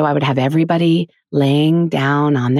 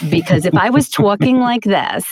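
a bit higher, lightly Queens; mild New York Queens accent; 4 semitones higher than usual. Shown as a demonstration. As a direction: slip back into Queens speech.

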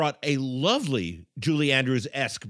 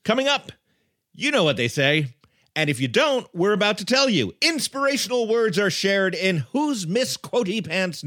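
segment teaser; 4 semitones higher than usual. Real, not acted. Host's teaser for next segment.

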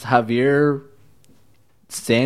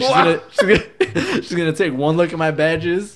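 mock cousin voice; 4 semitones higher than usual. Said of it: "she's like".

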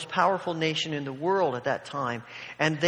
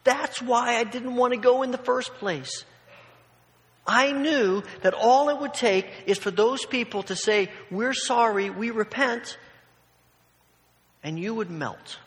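higher-pitched, emphatic complaint; angry Jonah; 5 semitones higher than usual. Retold or imitated. Jonah complaining to God about mercy, mad. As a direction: throw an indignant accusation at God. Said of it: "He is so mad at God".

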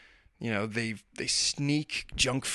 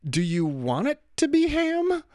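much higher, slow, sing-song teasing; sly coaxing dad. Retold or imitated. Dad teasing his daughter at dinner: high, slow sing-song coaxing. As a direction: coax her like a kid, drawn out. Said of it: "was like".

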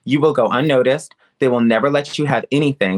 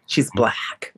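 low, slow dismissive mimicry of casting people; mock casting voice; 3 semitones lower, slower than usual. Casting people dismissing her, mocked low and slow. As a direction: sneer it like a doubtful casting director.

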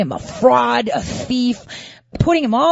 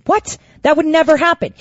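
incredulous what; 6 semitones higher than usual. Real, not acted. Incredulous reaction.

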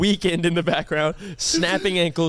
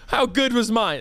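higher-pitched incredulous echo; indignant rant; 4 semitones higher than usual. Retold or imitated. Client ranting to his friend about his massage, indignant. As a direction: throw the question back, mildly outraged. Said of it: "I just go on and rant".

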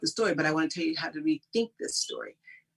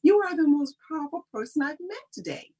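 excited reply; 9 semitones higher, 4 dB louder than usual. Retold or imitated. Quoting her reply to someone.

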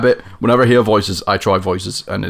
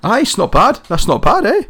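higher-pitched Scottish accent; 11 semitones higher than usual. Shown as a demonstration. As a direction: put on a Scottish lilt, pitched up. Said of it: "I can do a Scottish accent".

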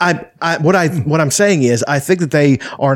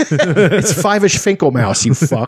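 laughing; slower than usual. Real, not acted. Joking Jewish mouse name.

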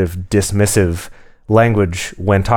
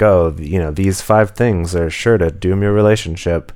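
clickbait video narrator. Pretend. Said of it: "making everything into an Upworthy headline".

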